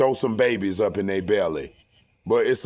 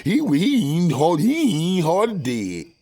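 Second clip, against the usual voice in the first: high, loud, overeager bootlicker; hammed-up subservient worker voice; mock servile worker; 7 semitones higher, 6 dB louder than usual. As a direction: suck up to the boss, loud and high. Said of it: "That's how they talk out here".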